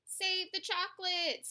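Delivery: high-pitched storybook cry to the rescue; urgent yell. A narrator's reading. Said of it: "yelled the man".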